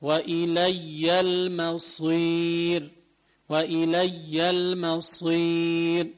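وإلي المصير slow, heavy ص; slow heavy sad. Shown as a demonstration. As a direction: recite وإلي المصير slowly, full ص. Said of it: "كلمة".

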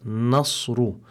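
slow "nasru" with a thin n before the heavy s; light noon. Shown as a demonstration. Translator warning beginners about the noon, slow careful light-noon pronunciation. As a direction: say "nasru" slowly, keeping the n light. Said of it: "make sure that the noon is muraqqaqa".

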